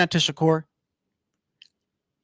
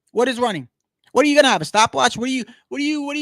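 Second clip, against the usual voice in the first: incredulous; 4 semitones higher, 4 dB louder, faster than usual. Real, not acted. Incredulous rhetorical question.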